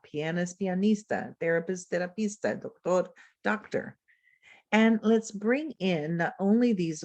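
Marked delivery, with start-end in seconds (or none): 0.6-1.3 Spanish pronunciation. Shown as a demonstration. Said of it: "words that are similar in spelling and meaning". 1.9-2.6 Spanish pronunciation. Shown as a demonstration. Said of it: "words that are similar in spelling and meaning". 2.6-3.1 doctor said in Spanish, stressed on the last syllable; Spanish pronunciation. Shown as a demonstration. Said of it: "words that are similar in spelling and meaning".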